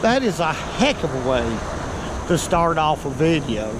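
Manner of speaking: puffing after the climb; out of breath. Real, not acted. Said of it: "Yeah, I'm a little bit winded".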